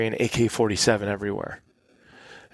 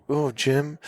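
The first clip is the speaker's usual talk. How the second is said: higher-pitched foreign listeners catching on; mock understanding, pitched up; imitated listeners; 4 semitones higher than usual. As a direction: play an audience following along. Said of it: "so I'm acting everything out".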